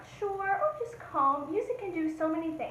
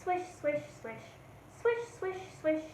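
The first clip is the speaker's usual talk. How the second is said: soft swishing; 6 dB quieter than usual. Shown as a demonstration. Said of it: "get some wind going".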